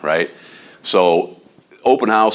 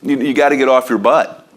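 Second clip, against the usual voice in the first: raised pitch, urging hard; frustrated exhortation; 6 semitones higher than usual. Real, not acted. Agent urging colleagues, a frustrated raised voice. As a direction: push them to get off their butt. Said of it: "frustrates the heck out of me".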